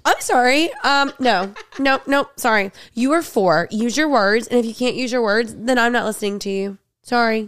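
mock-stern adult correcting a child; stern refusal. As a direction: lay down the law to a kid. Adult scolds the baby-talking kid.

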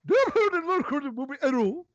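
excited arguing. Acted. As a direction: argue it wildly. A singer's film role, excited argument.

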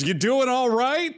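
high, slow, exaggerated caring check-in; mock-concerned theme park staffer; concerned Disney employee. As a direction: lean in and ask a fainting guest if she's okay, drawn out. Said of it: "leans over and goes".

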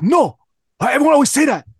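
high, protesting mock Chinese accent; loud denial in an imitated Chinese accent; Lou. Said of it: "he has the thickest Chinese accent".

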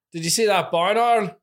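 Northern Irish "barn owl" with oil vowel; Northern Irish accent, owl as oil. Shown as a demonstration. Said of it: "I said barn wrong".

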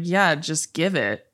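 slow monotone imitation; drawn out, lightly deadpan; a hint of an unbothered assistant; Bella. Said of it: "It's very monotone".

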